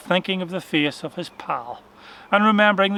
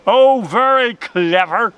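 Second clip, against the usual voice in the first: shouted; 4 semitones higher, 5 dB louder, slower than usual. A narrator's reading. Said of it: "shouted Mister Rabbit".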